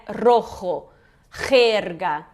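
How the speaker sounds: "Rojo" and "jerga" with J as throat friction; throaty Spanish J. Shown as a demonstration. Teacher giving students easy J examples, throaty J said slowly. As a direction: rasp the J of "jerga" like Portuguese initial R. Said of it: "esse som não tem grandes problemas".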